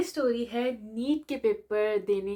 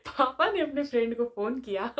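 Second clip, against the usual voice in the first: laughing. Real, not acted. Laugh heard while telling.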